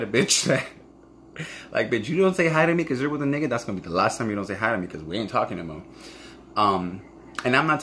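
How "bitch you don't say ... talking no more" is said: sassy callout. Retold or imitated. Scolding a friend who ignores her, sassy and fast.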